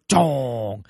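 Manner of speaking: drawn-out "dong" sound effect; imitated switch clunk. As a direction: imitate a giant switch being thrown. Imitates a master switch shutting off.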